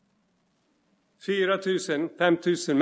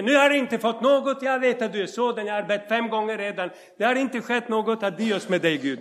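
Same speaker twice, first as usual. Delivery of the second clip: mock impatient complaint; 5 semitones higher, faster than usual. Faith that gives up, mocked.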